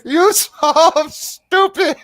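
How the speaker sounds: high, slow mocking cackle through the words; laughing taunt. Rira laughs at the grabbing player, a high slow laughing jeer. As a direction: laugh at him as you jeer. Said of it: "he begins laughing".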